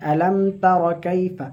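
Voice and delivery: "আলম তার কাইফা" run together fast, no stretching; read quickly. Shown as a demonstration. Teacher showing students a quick, unstretched reading. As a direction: rush "আলম তার কাইফা" with no long vowels. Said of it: "তাড়াতাড়ি".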